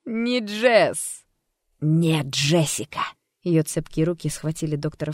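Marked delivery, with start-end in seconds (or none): 0.0-1.2 high, loud denial; gleeful alter ego. Acted. Alter ego correcting the doctor, gleeful. Alter denies being Jess. 1.8-3.0 slow, firm, louder; firm insistence. Acted. Doctor insisting on Jessica's name, firm.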